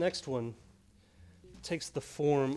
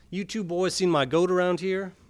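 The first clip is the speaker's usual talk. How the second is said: farmer calling out; 5 semitones higher, 8 dB louder than usual. Acted. Farmer asks about goat.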